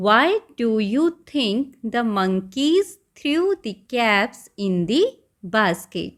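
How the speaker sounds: very slow, each word spaced out; slow question reading. Shown as a demonstration. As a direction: read the question aloud for young learners. Teacher reads worksheet question.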